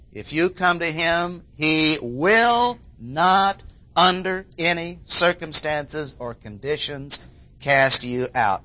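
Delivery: "will not" drawn out slowly and pressed; emphatic. Shown as a demonstration. Preacher stressing the emphatic Greek to his listeners, slow and firm. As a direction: stretch "he will not" to make it absolute. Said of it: "those words are very emphatic".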